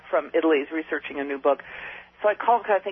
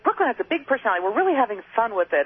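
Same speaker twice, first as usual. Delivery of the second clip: bouncy, fast and higher; mock enthusiasm; 4 semitones higher, faster than usual. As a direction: play up a perky marketer's cheer. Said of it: "bouncy and enthusiastic".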